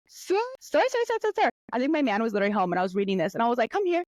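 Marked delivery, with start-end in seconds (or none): 0.1-1.5 high-pitched mock yell, no added volume; retold yell. Girlfriend summoning her man over astrology find, mock yell. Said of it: "yelled at the top of my lungs". 3.7-4.0 high-pitched retold call; mock urgent summons. Girlfriend calling her man over to confront him, mock urgent.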